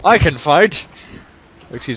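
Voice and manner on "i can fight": lightly voiced, rising; mock warrior boast. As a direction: claim it with a hint of bravado. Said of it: "That one's a lot more to the point".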